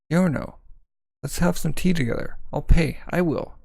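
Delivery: lightly voiced high fawning girl; a hint of an eager schoolgirl begging. Fawning girls inviting Giorno to tea.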